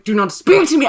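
indignant retold snap; bitchy retort. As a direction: put them firmly in their place. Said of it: "I was such a bitch".

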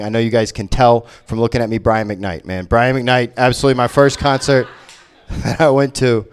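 usual speaking voice

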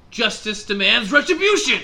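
booming fanatical cry; zealot shout. Acted. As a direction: bellow it like a crazed zealot. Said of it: "And he says".

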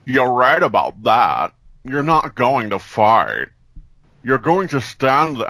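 a hint of a creepy old man; Mister Plinkett voice. A bully threatening Jeff, lightly voiced creepy old man. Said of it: "That was Mister Plinkett".

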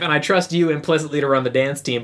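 high-pitched, hammed-up verdict; playful administrator. Administrator overruling the dance team captain, high and theatrical. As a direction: act an administrator building to a big announcement.

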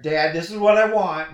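a hint of a bossy teen; lightly voiced daughter giving her order; imitating daughter. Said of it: "we're in the car".

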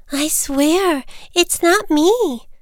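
high, drawn-out protest; insistent little bird. Acted. Little Bird denies ringing to the neighbors, insistent. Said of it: "Little Bird insisted".

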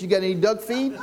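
duck line said through a laugh; can't hold back a laugh at the punchline. Acted. Preacher telling the duck joke, laughing at the punchline.

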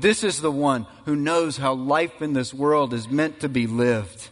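God the Father declaring his son, mild mock roar; roaring proclamation. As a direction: proclaim it like a lion's roar, half-preached. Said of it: "the Father roared and said".

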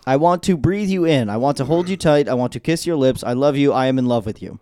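stiff, sing-song bot declaring love; flat chatbot romance; robot sexting voice. Retold or imitated. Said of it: "like an A I robot".

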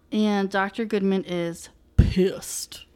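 slow, hushed whisper. Real, not acted. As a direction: whisper it like gossip. Dramatic aside about an angry doctor.

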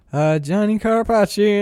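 imitating a lackluster greeting; half-hearted, unimpressed mock hello. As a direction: say it with little enthusiasm. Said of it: "like, so lackluster".

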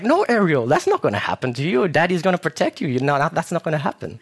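high-pitched, lightly acted fatherly refusal; protective protest. Father telling child nothing bad will happen, protective. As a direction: reassure the child with mock alarm.

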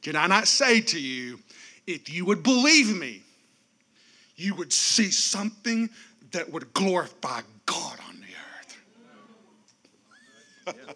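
a hint of God pressing you, whispered end; God grabbing your attention. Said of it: "grab you by the face, and say".

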